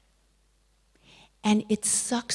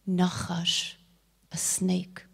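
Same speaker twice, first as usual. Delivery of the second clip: softer whispered naming of the snake; hushed whisper; 3 semitones lower, 5 dB quieter, slower than usual. Acted. Teacher names the snake to her listeners, whispering. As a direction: breathe the words like a warning.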